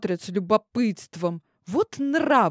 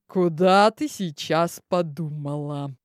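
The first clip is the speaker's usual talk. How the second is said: official tone; 5 semitones lower than usual. Acted. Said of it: "Голос Омерфора звучал официально".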